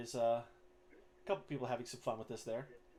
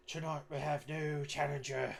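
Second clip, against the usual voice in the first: raised, drawn-out announcer call; goblin arena announcer; 4 semitones higher, 3 dB louder, slower than usual. Acted. Goblin announcer presents a new challenger, drawn-out announcer voice. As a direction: slowly proclaim it like a fight announcer. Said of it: "homemade megaphone or whatnot".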